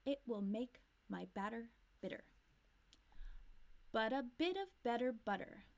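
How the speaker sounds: clear, careful tongue twister; tongue twister demo. Shown as a demonstration. Teacher models the tongue twister for students. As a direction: model each line for repeating. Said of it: "let's do that again".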